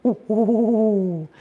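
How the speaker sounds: a soft little owl flutter of woos; gentle shoulder hoot. Retold or imitated. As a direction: coo it softly like an owl. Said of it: "like a really soft, like, flutter".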